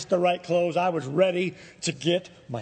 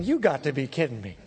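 low, deadpan incredulity; muted disbelief; 6 semitones lower than usual. Retold or imitated. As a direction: say it low, to yourself. His disbelieving thought, retold.

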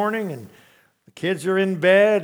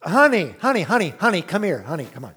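soothing, calling him back; gently calming a panicked husband; coaxing wife; 4 dB louder than usual. Retold or imitated. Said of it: "In other words".

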